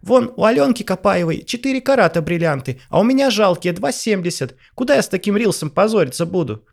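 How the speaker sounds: high, loud hysterical rant; frantic shouting hostage taker. Acted. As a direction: rant in a shrieking frenzy. Vanessa continues her hysterical rant.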